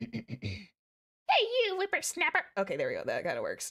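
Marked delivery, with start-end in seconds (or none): 0.0-2.4 put-on elderly woman voice. Trying out a character voice for a show: old lady voice. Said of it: "can I get an old lady voice in me".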